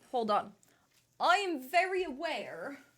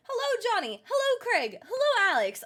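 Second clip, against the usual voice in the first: bright high sing-song hellos; high singsong greeting; 11 semitones higher, 4 dB louder than usual. Real, not acted. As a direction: greet each name in a lilting high voice.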